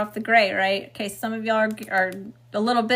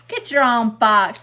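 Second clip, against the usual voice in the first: relayed spirit message; 8 dB louder, slower than usual. Retold or imitated. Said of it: "That's what I just heard".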